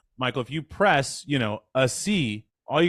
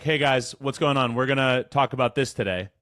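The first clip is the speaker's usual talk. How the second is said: chest voice. Shown as a demonstration. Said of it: "My pitch is lower, but my color is different".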